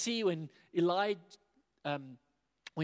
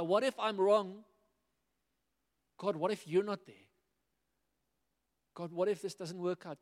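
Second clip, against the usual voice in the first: anxious doubt; 3 semitones higher than usual. Retold or imitated. Ananias's fears voiced.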